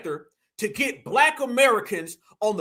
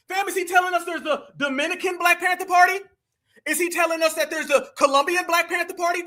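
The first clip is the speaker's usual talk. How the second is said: incredulous shout; 6 semitones higher than usual. Real, not acted. Ranting to the chat.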